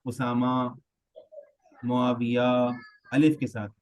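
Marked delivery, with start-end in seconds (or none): 0.0-2.7 اسامہ and معاویہ ending in a long alif; Urdu-style ending. Shown as a demonstration. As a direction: say اسامہ with a plain long a at the end. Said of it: "تو ہمیں لگتا ہے کہ شاید وہ یوں ہوگا". (اردو انداز میں الف کے ساتھ)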